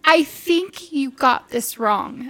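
drawn-out, mock-trembly complaint; shaky voice. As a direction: imitate a client faltering in shock. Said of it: "his voice was shaky".

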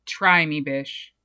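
low, sassy, fading into a low mutter on "bish"; defiant taunt. Pretend. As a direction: dare them, cocky and dropping low.

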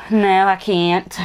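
slow country twang; country accent. Shown as a demonstration. Host showing off the one accent they can do, slow country. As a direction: stretch it out in a country drawl. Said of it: "do a good country accent".

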